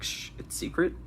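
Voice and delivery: hushed, breathy secret whisper; mock whisper. Quoted line begins with shh.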